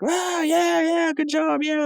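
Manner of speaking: very high, offhand cheer; mock casual cheer. Crowd covered in brain goo, high offhand cheer. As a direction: cheer like nothing gross happened. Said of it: "they're all just like".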